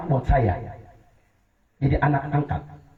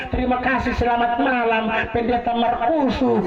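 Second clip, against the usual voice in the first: imitating Nias speech; 5 semitones higher than usual. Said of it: "mereka bilang".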